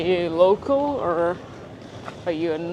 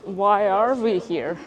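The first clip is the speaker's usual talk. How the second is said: sarcastic; 2 semitones higher, 5 dB louder than usual. Retold or imitated. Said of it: "almost sarcastically".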